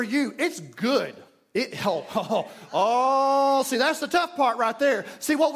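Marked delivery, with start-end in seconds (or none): 1.9-3.6 mock groan. Acts groaning at effort of prayer.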